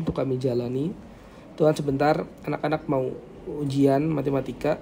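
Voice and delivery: subdued, measured spoken prayer. Real, not acted. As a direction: lead the class in quiet prayer, pausing between phrases. Leads a closing prayer. (doa tenang dan khidmat)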